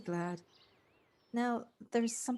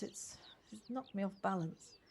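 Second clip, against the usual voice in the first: a soft whisper of confession; hushed, unvoiced admission of being shaken; 6 dB quieter than usual. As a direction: let the words fall to a whisper. Admitting she is shaken.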